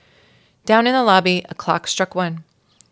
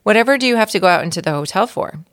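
exasperated uncle; 4 semitones higher, 6 dB louder, faster than usual. Acted. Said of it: "asked Uncle Lester".

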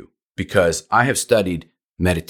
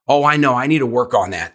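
client voice; 3 semitones higher, 3 dB louder, faster than usual. Retold or imitated. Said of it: "they say".

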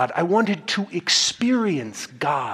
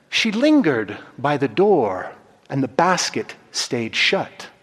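storytelling narration. A narrator's reading. Preacher reading a story to the congregation, gentle narration. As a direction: draw the listeners into the tale.

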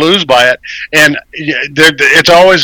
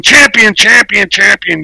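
high announcer call fading like an echo; 5 semitones higher, slower than usual. Acted. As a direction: call it out big, then let it die away like an echo. Host introduces himself like announcer.

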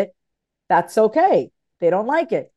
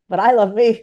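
louder affirmation; 4 dB louder than usual. Shown as a demonstration. Repeating the affirmation for listeners, louder with conviction. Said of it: "Say that out loud".

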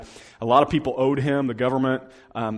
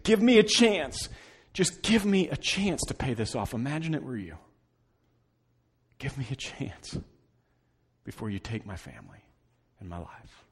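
begging. Acted. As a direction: beg for mercy, fading down.

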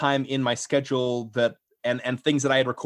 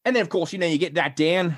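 posh British accent turning Australian; British sliding into Australian; 3 semitones higher than usual. Shown as a demonstration. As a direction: let the RP slip into Australian. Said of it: "went more into my Australian".

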